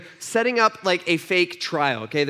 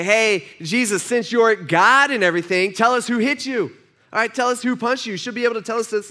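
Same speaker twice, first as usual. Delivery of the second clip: mocking taunt; 5 semitones higher, 4 dB louder than usual. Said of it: "They're mocking him".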